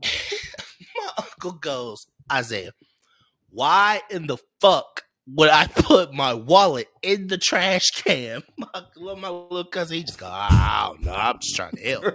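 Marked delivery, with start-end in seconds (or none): 2.3-8.4 slow, loud, disbelieving scold; exasperated uncle. Retold or imitated. Uncle yelling at nephew about trash can. 10.3-12.0 louder, lower protest; defensive kid. Retold or imitated. Little cousin shouting defensively at uncle.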